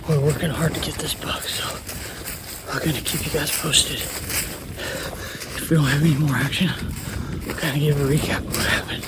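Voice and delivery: out of breath from running uphill; panting between words, winded; heavy breathing. Real, not acted. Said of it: "Sorry, I'm breathing hard".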